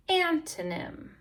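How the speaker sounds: "Antonym" said high and clear; modelled word. Shown as a demonstration. Teacher models the word "Antonym" for class, high and clear.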